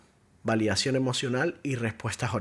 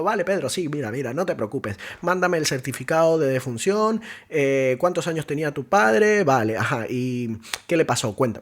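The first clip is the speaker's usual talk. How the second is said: louder, higher, brisk and indifferent; careless loud agent; 3 semitones higher, 5 dB louder than usual. Shown as a demonstration. Uncaring agent to a grieving caller, louder and higher. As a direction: rattle it off, not caring about his loss. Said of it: "le dio igual sus emociones".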